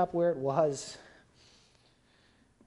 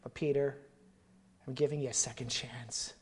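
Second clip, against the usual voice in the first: the Lord's tender call. Retold or imitated. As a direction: tenderly call him back. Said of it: "the Lord to come to him and say".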